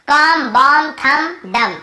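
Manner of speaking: "कॉम, बॉम, थंब, डम", each closing on M; silent B. Shown as a demonstration. Teacher recaps for students, "थंब" said tham like "कॉम, बॉम, डम". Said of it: "एम का बी का उच्चारण".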